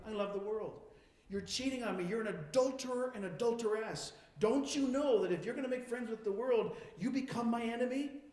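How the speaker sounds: a betrayed lover confronting, building; betrayed God confronting his cheating people; wounded accusation. Acted.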